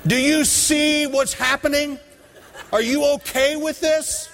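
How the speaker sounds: high, slow, exasperated yelling at God; yelled complaint. Retold or imitated. Father yelling at God in his front yard, high and exasperated. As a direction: fling the question up to heaven, half laughing. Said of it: "yelling out in the middle of my front yard as loud as I can".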